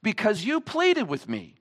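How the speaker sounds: loud, slow, furious rebuke; enraged king. Acted. King rebukes the merciless slave, loud and furious. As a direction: bellow it like a wronged king. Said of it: "he becomes enraged and says".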